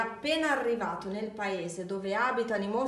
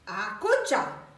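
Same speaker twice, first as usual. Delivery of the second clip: a slow, loud order; commanding shout; 6 dB louder, slower than usual. A narrator's reading. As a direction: shout it like taming a dog. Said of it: "Max gridò".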